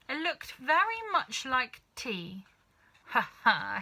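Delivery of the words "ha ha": mock triumphant laugh. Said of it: "she cried".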